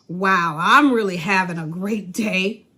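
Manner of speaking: slow, dragged-out sarcastic praise. Shown as a demonstration. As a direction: say it so they know you mean the opposite. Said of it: "I'm being sarcastic".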